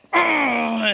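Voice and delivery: high, loud drawn-out wail; imitated cry. Boy caught by a neighbour mama, high mock wail.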